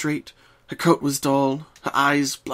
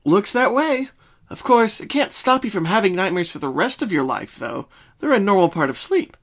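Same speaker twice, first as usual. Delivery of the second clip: put-on higher, bright young mare voice; Twilight voice; 7 semitones higher, 4 dB louder than usual. Twilight opens the door to Pinkie, higher friendly voice. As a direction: voice Twilight greeting her friend.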